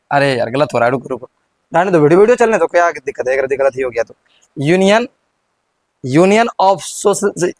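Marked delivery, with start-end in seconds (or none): 4.6-7.5 slow, halting first try that goes wrong at "Social"; slow mistaken take. Shown as a demonstration. Teacher fumbling the name in front of the class, slow. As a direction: stumble slowly over "Union of Social". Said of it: "थोड़ा बोलने में नहीं बनता है".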